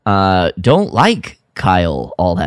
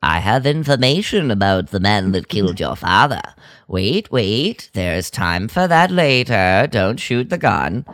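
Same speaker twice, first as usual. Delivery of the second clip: droid line retold. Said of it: "And he says".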